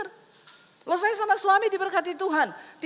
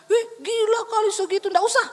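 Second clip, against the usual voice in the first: mock shock; 5 semitones higher, 5 dB louder than usual. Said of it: "saya berharap suami saya bilang".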